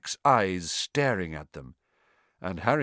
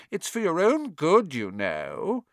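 saintly voice; 8 semitones higher than usual. A narrator's reading. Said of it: "in a saintly voice".

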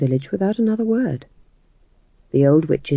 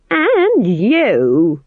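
higher, louder curt goodbye; curt retort; 5 semitones higher, 5 dB louder than usual. Acted. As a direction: fling it back at her. Witches part in anger.

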